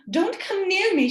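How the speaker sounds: put-on high, loud girl's warning. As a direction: warn the wolf off, high and loud. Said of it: "she warned".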